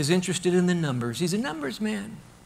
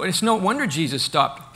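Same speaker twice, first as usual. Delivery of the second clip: ordinary talk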